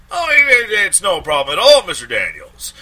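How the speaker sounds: high, loud, fawning stammer; stammering Applegate. A narrator's reading. Lawyer gushing at a paying client, high stammering voice. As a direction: gush over the client, tripping on words.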